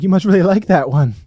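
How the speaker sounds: imitating a strange old lady; mocking weird lady. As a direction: parody a creepy stranger's chirpy tone. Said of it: "And she's like".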